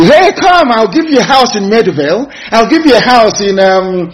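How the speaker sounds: high, wheedling mock bribe; hammed-up high coaxing voice; mocking coaxing colonizer. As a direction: dangle the offer, lure them sweetly. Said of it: "They want to come and tell you".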